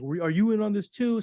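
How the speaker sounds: a touch of panic, imitated; mildly freaking out. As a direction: lightly act out a rattled accusation. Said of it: "Golden Boy's kinda freaking out".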